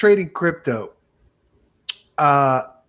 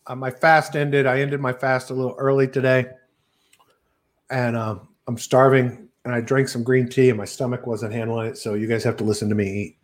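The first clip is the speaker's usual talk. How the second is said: talking while eating lunch; mouth full; 6 semitones lower than usual. Real, not acted. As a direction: speak through a mouthful of food. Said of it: "Sorry, I'm eating".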